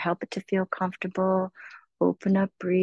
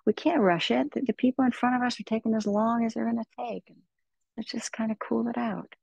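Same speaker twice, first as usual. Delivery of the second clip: very gentle self-soothing; 4 semitones higher than usual. Shown as a demonstration. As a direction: soothe yourself like a loved child. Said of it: "begin to very gently say".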